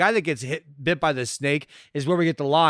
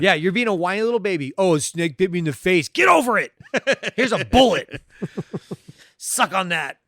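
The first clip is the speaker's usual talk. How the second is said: mocking tough guy; 3 semitones higher, 3 dB louder than usual. Voicing Lance Henriksen mocking.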